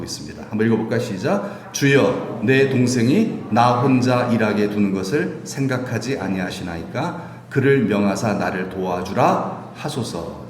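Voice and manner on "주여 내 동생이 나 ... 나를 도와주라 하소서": soft reading. Shown as a demonstration. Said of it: "제가 지금 부드럽게 읽어서".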